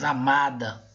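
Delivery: "amada" with a weighted middle MA; stress on MA. Shown as a demonstration. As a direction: lean on the second syllable, MA, in "amada". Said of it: "nós vamos ver que o ma é a sílaba mais forte".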